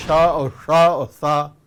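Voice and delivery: शा, शा, सा each set apart as two different sh sounds, then a dental s; distinct sibilants. Shown as a demonstration. Teacher showing three confusable sibilants, carefully articulated. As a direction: articulate शा, शा, सा separately and firmly. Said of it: "तीनों में अंतर नहीं कर पाते".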